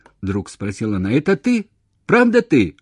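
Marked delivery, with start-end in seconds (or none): 1.1-2.8 high, loud disbelieving questions; anxious, near tears. A narrator's reading. Woman doubting it's really him, tearfully urgent. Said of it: "Наверное, она плакала".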